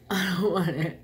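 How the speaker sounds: loud, firm no; emphatic refusal. Real, not acted. Refusing sauce, playful.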